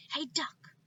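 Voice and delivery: high loud witch call; witch shout. Acted. Witch Gritch shouting at the duck, high and loud. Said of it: "Gritch shouted to a duck".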